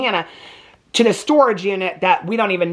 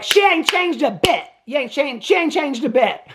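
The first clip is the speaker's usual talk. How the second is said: mock outraged disbelief; 6 semitones higher than usual. Viewer reacting to the villain's scheming, mock outraged disbelief. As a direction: holler back at the screen, stretched high.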